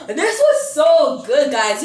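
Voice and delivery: slow, laughing gloat. Real, not acted. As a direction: laugh through it, savouring the win. Gloating after the prank.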